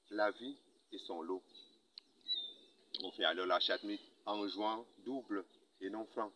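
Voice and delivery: measured poetry recital with long pauses; poem declamation. Acted. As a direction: declaim the poem, lifting key lines and letting others fall. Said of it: "le déclamant".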